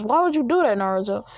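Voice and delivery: high, loud disbelief; can't believe what he just did; shocked question. Acted. Kakashi shocked at Naruto.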